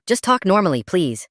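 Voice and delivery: exasperated plea. Retold or imitated. Mom pleads with son.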